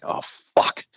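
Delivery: whispered curse under the breath; whispered dread. Retold or imitated. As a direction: mutter it to yourself in dread. Dread at being summoned.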